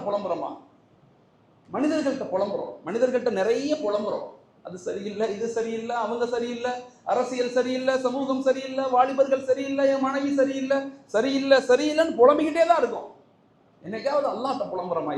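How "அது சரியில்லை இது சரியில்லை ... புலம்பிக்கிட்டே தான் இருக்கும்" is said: building mock complaint. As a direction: mimic people's endless whining. Mocking list of complaints building.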